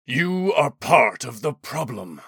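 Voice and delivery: slow, weighty accusation; deliberate, resonant condemnation; stern rebuke. A narrator's reading. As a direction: scold with crushing authority. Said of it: "voice cracked like a whip".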